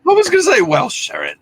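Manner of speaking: high, teasing echo of the nickname; playful squeal. Pretend. Host teasingly echoes the nickname Welsh Sharon in a squeal.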